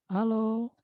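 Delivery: normal talking voice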